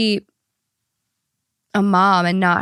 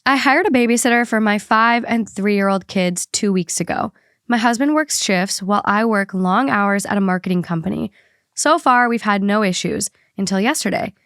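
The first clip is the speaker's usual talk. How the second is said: even, measured read-aloud voice; podcast host reading a written account; reading a post aloud. Acted. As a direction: read out a personal story clearly. Reads the listener post aloud.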